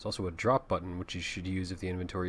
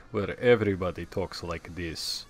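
put-on generic Russian accent; thick mock Russian accent. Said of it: "Generic Russian accent".

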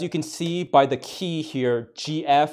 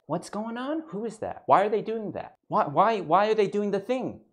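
mock girlfriend questions; 5 semitones higher than usual. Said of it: "to be asked".

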